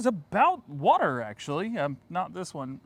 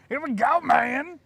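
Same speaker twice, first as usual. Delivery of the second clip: high, loud hype shout; 10 semitones higher, 8 dB louder, slower than usual. Pretend. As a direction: pump up the crowd. Hyping up the next clip.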